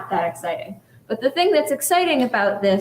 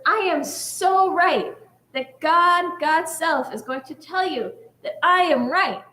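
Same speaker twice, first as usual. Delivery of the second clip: insistent rabbi; 4 semitones higher than usual. Retold or imitated. Lone rabbi invokes God.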